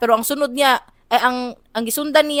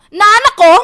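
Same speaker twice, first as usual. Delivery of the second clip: higher, louder call on arrival; loud announcement; 9 semitones higher, 10 dB louder than usual. Retold or imitated. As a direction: announce yourself boldly.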